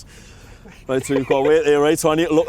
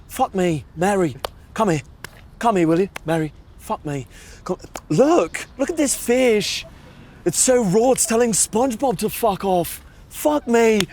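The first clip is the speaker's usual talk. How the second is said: higher, sweary angry chef rant; Gordon Ramsay; 7 semitones higher than usual. Retold or imitated. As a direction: blast a raw dish like a furious TV chef. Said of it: "I do a good Gordon Ramsay".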